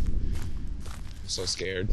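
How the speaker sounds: slow, breathy whisper of fear; scared whisper while sneaking through the woods. Pretend. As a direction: whisper it very slowly, spooked. Creeping through dark woods.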